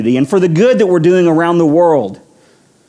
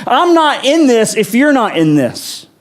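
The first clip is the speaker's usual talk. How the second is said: slow, raised-pitch plea to God; impassioned prayer; 5 semitones higher than usual. Acted. Moses praying to God, refusing to go alone, impassioned prayer. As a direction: plead it slowly, with firm resolve. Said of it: "Moses prays".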